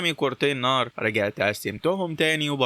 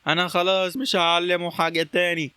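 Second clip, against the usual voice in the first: exasperated; 6 semitones higher than usual. Acted. Hailey storms off shouting back.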